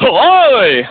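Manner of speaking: Sai Kumar. Shown as a demonstration. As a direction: call out like a dubbed action hero. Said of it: "ఆ voice ఎలా ఉంటుందంటే".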